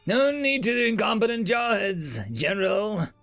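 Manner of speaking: high-pitched smug jibe; smirking. A narrator's reading. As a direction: needle the general with a smirk. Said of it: "the attaché smirked".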